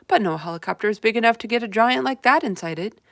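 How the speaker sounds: loud boastful officer; proud. A narrator's reading. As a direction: puff up with pride. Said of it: "said proudly".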